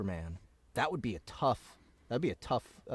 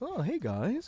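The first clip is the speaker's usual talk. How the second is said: put-on breezy rich-guy voice, pitched higher; 11 semitones higher than usual. Imitating the actor's lighter voice for the rich hero: Kevin Conroy's Bruce Wayne voice. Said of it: "when he was Bruce Wayne".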